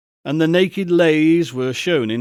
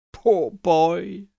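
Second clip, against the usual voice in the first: pitying; 3 semitones higher than usual. A narrator's reading. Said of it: "in pity for his former self".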